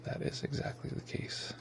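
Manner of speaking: lips held still, words pushed through; talking without moving lips. Shown as a demonstration. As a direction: talk with frozen lips, like a ventriloquist. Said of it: "without moving my lips".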